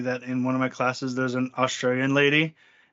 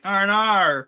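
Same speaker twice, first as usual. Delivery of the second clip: laughing mock Aussie; 4 semitones higher, 4 dB louder, slower than usual. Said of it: "I'm like".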